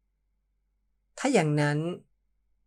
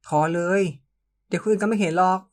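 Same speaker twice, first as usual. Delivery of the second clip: protest; 3 semitones higher, 4 dB louder than usual. Acted. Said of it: "ผมโวย".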